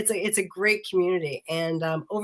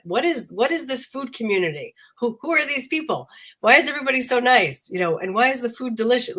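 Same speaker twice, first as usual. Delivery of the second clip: higher-pitched, marveling questions; retold amazement; 7 semitones higher, 3 dB louder than usual. Founder recalls discovering the food community, amazed. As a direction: reenact being amazed, pitch lifted.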